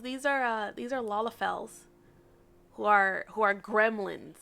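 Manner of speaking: ordinary delivery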